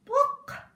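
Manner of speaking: high, loud quack; goose quack. Acted. Goose quacking for the children, high and loud.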